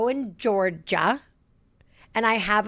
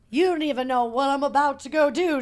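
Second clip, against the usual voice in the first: sassy inner voice; 3 semitones higher than usual. Retold or imitated.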